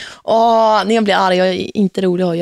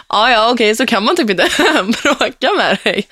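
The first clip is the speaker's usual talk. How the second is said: laughing give-up; 3 semitones higher than usual. Retold or imitated. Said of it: "Man bara".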